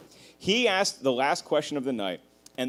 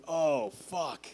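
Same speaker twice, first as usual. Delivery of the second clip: inner dread; 6 dB quieter, much slower than usual. Retold or imitated. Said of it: "I remember thinking".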